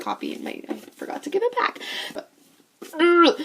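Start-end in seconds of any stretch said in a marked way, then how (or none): 3.0-3.4 short loud, higher "ugh"; frustrated groan; exasperated groan. Real, not acted. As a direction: groan with pent-up loathing. Groan of hatred for book.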